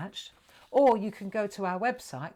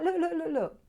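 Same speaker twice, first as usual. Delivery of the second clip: put-on excited child calling; 9 semitones higher than usual. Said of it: "he was shouting up at the window".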